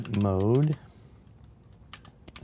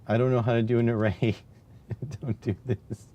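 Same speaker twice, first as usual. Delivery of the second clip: laughing; 3 semitones higher than usual. Real, not acted. Laughing at his own code.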